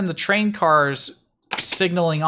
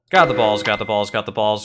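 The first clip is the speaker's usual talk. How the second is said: barking it out to the crowd; a hint of a ringmaster hyping the show; showman voice; 5 semitones lower than usual. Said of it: "I can't keep doing the voice".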